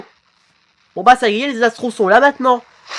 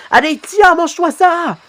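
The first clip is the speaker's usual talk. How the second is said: high-pitched fighting taunt; attack shout; 10 semitones higher than usual. Acted. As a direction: throw it out high as you strike. (cri d'attaque aigu)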